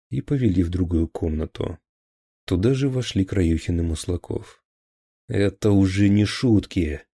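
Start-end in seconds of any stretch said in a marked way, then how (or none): 5.3-7.0 louder, pitch barely lifted; thundering. Acted. Police chief thunders at his officers. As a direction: boom it at the room. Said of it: "гремел начальник уголовного розыска".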